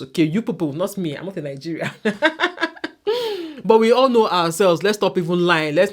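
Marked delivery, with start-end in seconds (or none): 1.9-3.6 high, real giggling laugh; long high peal of laughter; amused laugh. Real, not acted. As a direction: crack up at your own remark. Amused at her own disclaimer.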